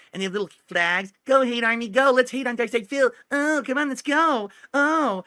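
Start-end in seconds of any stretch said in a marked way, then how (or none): 1.2-5.2 high, mocking cheerleader voice pitched well up; mock cheering hate army. Streamer mocking his haters as cheerleaders, high mock cheer. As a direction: lampoon his haters rallying each other.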